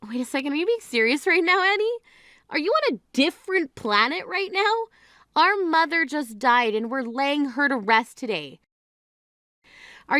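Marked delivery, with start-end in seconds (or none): 0.1-7.7 incredulous. Acted. Sister stunned by bride's demand.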